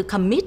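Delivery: "commit" stressed on MIT; stress on second syllable. Shown as a demonstration. Teacher explaining the doubled T, commit stressed on MIT. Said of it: "dấu nhấn ở vần thứ hai".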